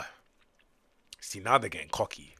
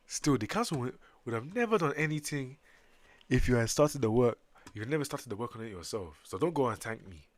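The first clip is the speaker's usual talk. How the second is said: put-on African accent; 2 semitones higher than usual. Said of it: "I made the Sumerians African".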